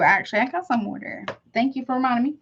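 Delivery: usual speaking voice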